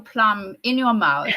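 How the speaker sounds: plummy royal English, as with a plum in the mouth; plummy Queen's English. Shown as a demonstration. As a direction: put on a terribly plummy English accent. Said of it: "you speak like that".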